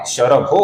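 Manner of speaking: शरभो ending in a long O; visarga becomes O. Shown as a demonstration. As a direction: say शरभो with the final visarga turned to O. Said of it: "विसर्ग का ओ हुआ है".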